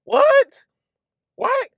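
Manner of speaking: high, hammed-up What; mock disbelief. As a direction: act stunned at the news. Mock astonishment.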